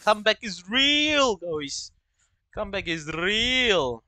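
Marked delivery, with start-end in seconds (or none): 0.0-1.9 hyped. Real, not acted. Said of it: "Let's do a comeback".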